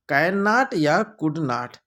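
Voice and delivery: slow, stretched formula; slow emphasis. Shown as a demonstration. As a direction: spell out the formula slowly. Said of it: "वाला फार्मूला चलेगा". (फार्मूला धीरे-धीरे ज़ोर देकर)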